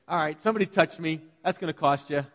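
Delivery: hammed-up diva huff; prima donna Jesus. Pastor mocking a touchy Jesus, a mild prima donna voice. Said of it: "You think he's a prima donna like that?".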